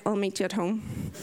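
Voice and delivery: low, clipped and cold; curt, flat tone. Retold or imitated. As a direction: shut the conversation down coldly. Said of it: "And that was the tone".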